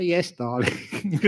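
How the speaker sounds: slow, soft yes darling; mock-sweet wife agreeing; meek agreement. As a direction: give in sweetly.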